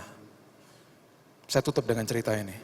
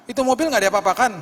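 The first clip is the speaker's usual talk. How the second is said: voicing a friend; 10 semitones higher, 7 dB louder, faster than usual. Friend asking about the car.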